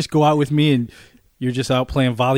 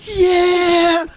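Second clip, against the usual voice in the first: high, hammed-up victory yell; big reenacted battle cry; triumphant roar; 3 dB louder than usual. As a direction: roar like a winning gladiator. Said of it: "and I just roared".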